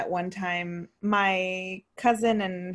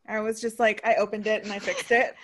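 ordinary talk, nothing marked

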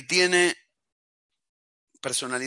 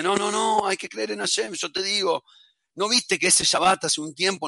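higher-pitched protesting reassurance; acted wifely insistence, pitched up; insistent wife; 5 semitones higher than usual. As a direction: plead with your husband to keep faith. Wife insists to despairing husband.

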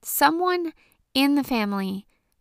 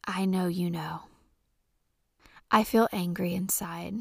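whisper; 2 semitones lower than usual. Real, not acted. Confiding her anger.

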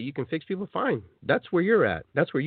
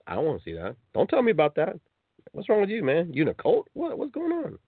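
mock annoyed; 5 semitones higher than usual. Annoyed person rejecting pitch.

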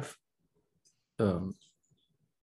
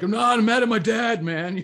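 mock upset outburst; 12 semitones higher, 7 dB louder than usual. Angry person reveals real cause.

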